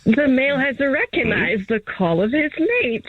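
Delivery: lightly voiced wildlife narrator, measured pace; David Attenborough. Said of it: "Channel my David Attenborough".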